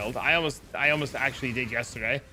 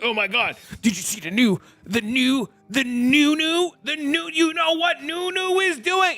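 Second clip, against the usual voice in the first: much higher and louder, gushing and climbing ever higher; hyped-up fan; 12 semitones higher, 4 dB louder than usual. Retold or imitated. Friend gushing about a streamer's new item, overexcited squeal. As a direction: gush like a fan who can't get the word out. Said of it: "everybody's gonna be like".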